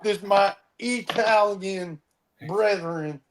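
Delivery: slow mock Italian; bad Italian accent. Quoting the fake Italian from Inglourious Basterds. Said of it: "He had the worst Italian accent".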